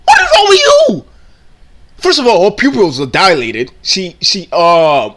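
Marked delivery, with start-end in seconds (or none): 0.1-1.1 very high, loud mock whine; mock whiny cry. Repeating clip in disbelief.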